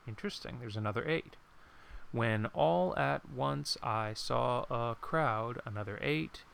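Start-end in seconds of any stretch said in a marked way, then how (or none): 2.1-5.6 slow, each syllable spaced out; slow counted reading. Shown as a demonstration. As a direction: count the beats as you read. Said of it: "Let's count the next one".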